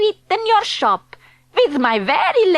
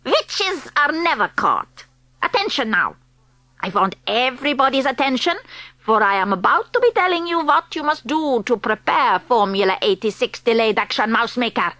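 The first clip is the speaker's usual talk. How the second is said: a hint of a foreign witch accent; 2 semitones lower, much faster than usual. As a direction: speak as the stern witch leader. Grand High Witch commanding.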